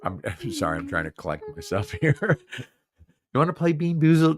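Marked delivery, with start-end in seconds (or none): 3.3-4.4 fast, slurred "Bean Boozled"; a tipsy host garbling the name. Real, not acted. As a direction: trip over "Bean Boozled" at speed. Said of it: "I couldn't even say Bean Boozled".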